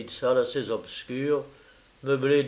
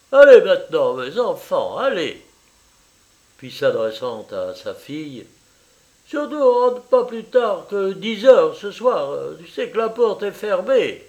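higher, effusive Italian mother welcoming a guest; eager landlady mother; 6 semitones higher, 7 dB louder than usual. Acted. Mother welcoming her daughter's French lover, eager and high. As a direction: gush over the visitor, pitched up.

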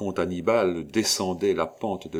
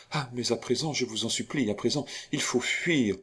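higher-pitched urgent entreaty; anxious supplication; 4 semitones higher than usual. Acted. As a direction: beg him to flee with you. Begs him to flee. (supplication pressante)

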